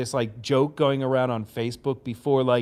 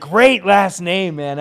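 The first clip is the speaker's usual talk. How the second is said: slow praise; 5 semitones higher, 7 dB louder, much slower than usual. Retold or imitated. Band praising the name.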